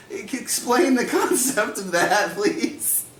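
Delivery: high-pitched mock child voice; high, halting kid's request; confused kid. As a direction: play a youngster needing an explanation, voice way up. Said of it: "and they go".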